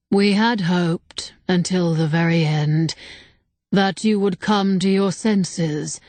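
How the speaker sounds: slow and grave; solemn spirit voice. Acted. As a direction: speak like an ancient being, unhurried. Ancient spirit speaks.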